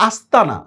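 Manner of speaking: আস্তানা with a hissed dental "s" before the t; crisp S sound in আস্তানা. Shown as a demonstration. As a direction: say আস্তানা with an S, not SH. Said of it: "দন্ত স দিয়ে উচ্চারণ করতেছি".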